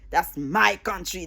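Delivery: "That's my country" drawn out slowly on "my"; slow, low quote, leaning on "my"; imitated emphasis. Quoting people who claim the country, with slow emphasis on "my". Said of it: "They said with such an emphasis".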